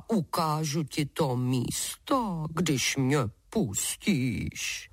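a lightly voiced giant bargaining for freedom; sly wind giant. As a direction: tempt him slowly with buried gold.

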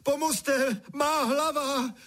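high, desperate cry at full throat; screaming for help. Acted. Honzík drenched with cold water, screaming for help. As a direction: scream as if the sky fell on you. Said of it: "křičel, co mu hrdlo stačilo".

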